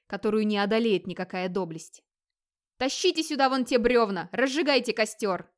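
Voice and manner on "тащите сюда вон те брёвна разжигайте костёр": higher, louder barked orders to his men; a chieftain giving orders over the noise; raised commanding voice. Acted. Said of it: "приказал Скьёльд".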